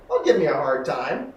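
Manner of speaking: a touch of irritation; mildly annoyed. Shown as a demonstration. Student pushing back in the exercise, mildly irritated. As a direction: push back a little. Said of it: "change the repetition and go".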